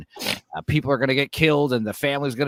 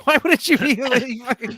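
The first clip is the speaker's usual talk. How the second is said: mock Keira Knightley; 11 semitones higher, 4 dB louder than usual. Mocking Keira Knightley's character.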